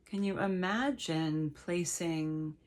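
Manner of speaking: slow, unhurried meditation guide with long pauses; measured meditation voice, leaving space between phrases; guided meditation. Real, not acted. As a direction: gently lead listeners into letting go.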